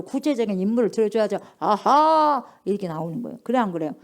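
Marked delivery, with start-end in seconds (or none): 1.6-2.4 aha. Acted. Realizing aha moment.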